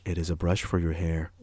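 flat, matter-of-fact answer, no life in it; dead monotone. Retold or imitated. Mimicking ShamWow's deadpan reply to a dumb question. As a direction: say it like it's painfully obvious. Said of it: "most dead of monotones".

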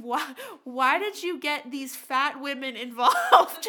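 loud, drawn-out mocking imitation of a ranter; crazy aggressive man. Crazy guy confronts the joggers, loud mock rant. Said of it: "this guy was fucking crazy".

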